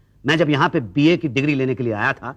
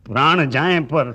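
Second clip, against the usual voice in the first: slow, drawn-out mock dying proclamation; dying man's last words; 3 semitones lower, slower than usual. Man re-enacting a father's dying words, melodramatic. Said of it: "मरते मरते भी उन्होंने कहा".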